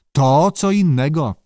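put-on firm old man brooking no debate; firm retort. A narrator's reading. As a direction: cut the argument off firmly. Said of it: "odparł zdecydowanie staruszek".

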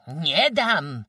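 loud, high furious refusal; enraged shriek. A narrator's reading. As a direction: scream the refusal in fury. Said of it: "wrzasnęła rozjuszona". (rozjuszony wrzask)

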